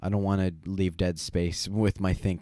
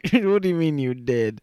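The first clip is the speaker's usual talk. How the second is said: indignant disbelief; 8 semitones higher, 5 dB louder than usual. Real, not acted. Indignant at friend's joke.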